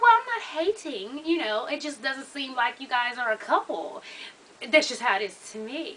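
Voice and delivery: lightly put-on proper voice, softening as it goes; polite, composed mock proper talk. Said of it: "she had to get her proper voice on".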